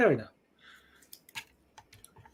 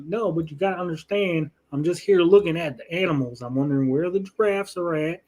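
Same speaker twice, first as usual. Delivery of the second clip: light put-on American Southern accent; Southern white guy; 2 semitones higher than usual. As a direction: play an innocent Southern guy sightseeing. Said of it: "Southern white guy voice".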